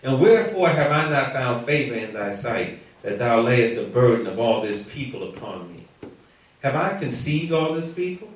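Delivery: measured, low-key Bible reading; scripture reading. A narrator's reading. Reads scripture aloud to the class.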